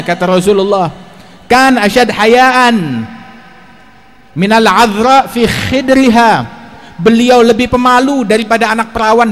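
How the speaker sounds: emphatic, stretched-out sermon delivery; forceful preaching. Acted. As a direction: declaim it to the congregation, drawing out final words. Preacher declaims Arabic texts forcefully.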